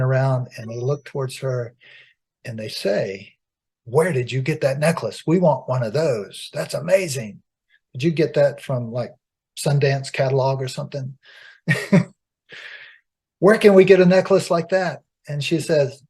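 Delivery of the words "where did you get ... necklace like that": put-on excited village girls.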